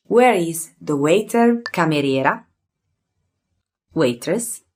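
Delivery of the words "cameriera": Cameriera, rolled r, ending on a open a; Italian pronunciation. Shown as a demonstration. Teacher modelling Cameriera for learners, careful Italian. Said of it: "So let's start".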